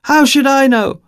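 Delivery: high, loud exasperated Eastern European woman; exasperated blurt. Acted. Irritated woman answering a stranger's question, exasperated. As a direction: blurt it out, fed up. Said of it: "she blurted out in exasperation".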